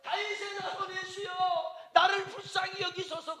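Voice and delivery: high, strained shout for mercy; a blind beggar screaming for Jesus to hear; shouted plea. Retold or imitated. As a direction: cry out across the crowd. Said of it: "소리를 지른 거예요".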